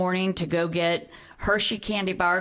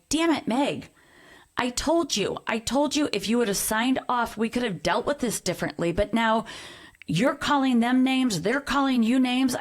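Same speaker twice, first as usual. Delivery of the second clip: higher-pitched retold telling-off; exasperated scolding; 4 semitones higher than usual. Mother to daughter after the name-calling online, exasperated scolding.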